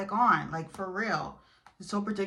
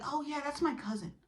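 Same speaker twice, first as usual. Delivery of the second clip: high, offhand mimicry; mock-innocent higher voice; imitating the lying boyfriend; 7 semitones higher, 3 dB quieter than usual. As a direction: toss off the lie in a put-on high voice. Imitating cheater's lie to girlfriend.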